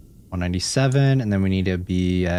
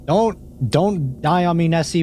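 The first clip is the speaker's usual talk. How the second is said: high pleading; 8 semitones higher than usual. Real, not acted. Pleading with sub not to die.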